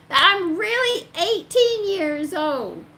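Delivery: slow, high, loud protest; re-enacted pleading insistence; emphatic insistence. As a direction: stretch it out to convince him. Acts out proving her age.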